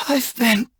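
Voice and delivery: a last breathy admission of defeat as strength goes; fading defeat. Acted. Defeated, collapsing.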